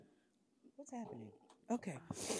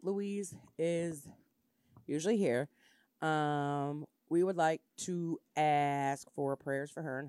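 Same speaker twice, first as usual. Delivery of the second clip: solemn; 5 semitones lower, 3 dB quieter than usual. Real, not acted. Serious announcement, asking for prayers.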